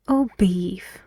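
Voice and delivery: "beef" dropping down to finish; closing fall on "beef"; falling tune on beef. Shown as a demonstration. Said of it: "it goes lower".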